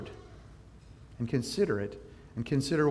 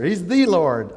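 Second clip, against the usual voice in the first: "the" said as "thee", loud and high; stress on THE; 4 semitones higher, 8 dB louder, slower than usual. Shown as a demonstration. Pastor granting they know the correct answer, stressing "the". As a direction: punch "the" emphatically. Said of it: "let's stress the first word".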